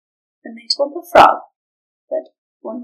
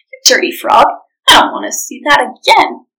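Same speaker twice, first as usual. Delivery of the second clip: louder, scolding ogre snap; disgusted ogre; 5 dB louder than usual. Acted. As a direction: spit it out in disgust. Ogre disgusted at vomiting frog.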